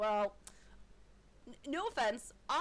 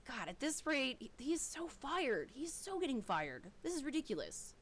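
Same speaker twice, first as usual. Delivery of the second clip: a hint of disgusted head-shaking; muttered exasperation; 5 dB quieter than usual. Guard grumbling about Hubert, softer exasperation. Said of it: "He says".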